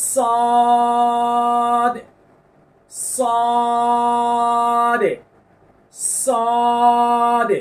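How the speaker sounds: heavy emphatic সদ, hissed s; Arabic letter name. Shown as a demonstration. Teacher drills the heavy letter for students, emphatic. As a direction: repeat সদ thick and full. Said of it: "ঘষা দিতে হবে".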